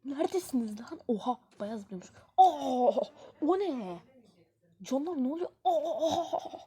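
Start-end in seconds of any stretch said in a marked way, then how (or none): 2.4-6.6 laughing shock. Real, not acted.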